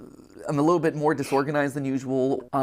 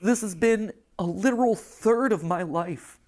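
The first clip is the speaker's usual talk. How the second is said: emotional; 4 semitones higher than usual. Real, not acted. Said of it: "he's really losing it".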